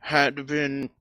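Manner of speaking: lightly voiced snob, posh-ish; a hint of a smug rich lord; snobby aristocrat voice. Plays snobby rich Lord Cat.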